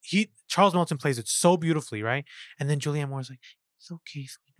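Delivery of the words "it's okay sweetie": very soft "It's okay, sweetie" with lisped s sounds; lisping mother. Retold or imitated. Julianne Moore's character soothing him with "It's okay, sweetie", soft lisp. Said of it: "Like, with her lisp".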